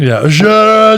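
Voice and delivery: high, mumbly rocker yelling for his wife. Retold or imitated. Singer calling to his wife, mock mumbly yell. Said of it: "I can't do his voice".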